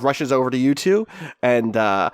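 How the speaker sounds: usual speaking voice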